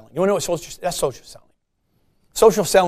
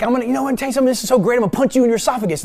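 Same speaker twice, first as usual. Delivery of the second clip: bright, high, cheery voice for a threat; cheerful threat; 6 semitones higher, much faster than usual. Retold or imitated. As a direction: say a threat as if it's good news. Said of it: "It was like".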